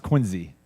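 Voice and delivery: "Quincy" said with a z, QUIN-zee; local pronunciation. Shown as a demonstration. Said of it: "this is pronounced Quincy".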